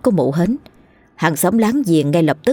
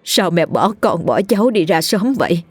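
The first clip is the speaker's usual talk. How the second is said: hammed-up wail climbing higher; a theatrical show of grief; mock sobbing lament; 4 semitones higher than usual. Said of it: "khóc lóc vật vã". (giả vờ khóc lóc vật vã)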